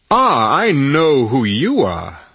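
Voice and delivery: put-on crisp faultless British accent. A narrator's reading. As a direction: speak in polished British English. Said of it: "in a faultless British accent".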